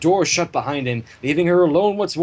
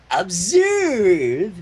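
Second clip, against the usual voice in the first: barked; 4 dB louder than usual. A narrator's reading. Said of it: "Pinkie barked".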